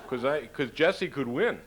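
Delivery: high, loud, eager voice of a voter asking his wife; a voter bursting to ask how to vote; excited Minnesota voter. Retold or imitated. Voter asking his wife where to vote, loud and eager.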